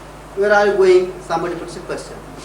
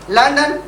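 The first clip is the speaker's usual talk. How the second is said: "London" accented on its first syllable, raised; "London" said higher as the focus word; stress on LONDON; 4 semitones higher than usual. Shown as a demonstration. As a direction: punch "London" high, as the marked word. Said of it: "accent mark".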